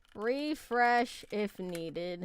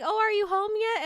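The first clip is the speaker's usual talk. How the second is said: higher-pitched mom on the phone; lightly voiced mom; 10 semitones higher than usual. Mom calls to ask if she is home, lightly imitated.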